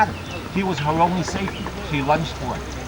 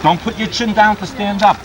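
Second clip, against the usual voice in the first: louder, higher urgent correction; calling out correction; 5 semitones higher, 5 dB louder than usual. Real, not acted. Coach stopping a swimmer's mistake, calling out a correction. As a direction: call out to stop the swimmer.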